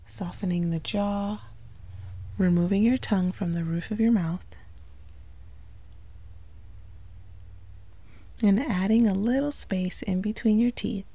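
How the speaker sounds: calm meditation delivery with long pauses; unhurried, lightly hushed guiding into relaxation; guided meditation. Acted. Yoga instructor guiding listeners to relax the body, calm meditation voice.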